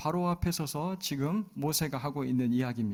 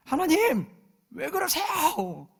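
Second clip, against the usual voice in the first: much higher, slow whiny complaint; whining grumble; 14 semitones higher, 6 dB louder, slower than usual. Retold or imitated. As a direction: grumble at God like a sulky child. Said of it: "막 투덜거리는 거예요". (높고 느리게 투덜거리며)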